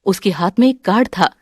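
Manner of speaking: ordinary delivery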